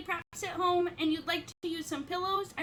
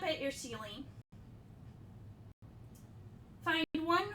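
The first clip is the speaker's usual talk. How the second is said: unhurried guidance with long pauses between phrases; guided yoga instruction; 6 dB quieter than usual. Acted. Yoga teacher easing the class into Shavasana, calm guided instruction. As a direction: settle the class into stillness, phrase by phrase.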